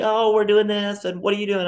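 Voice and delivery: high, bright chatty reply; chirpy woman. Retold or imitated. Attractive woman answering small talk, high and chirpy. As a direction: play the cheerful stranger. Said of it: "They're gonna be like".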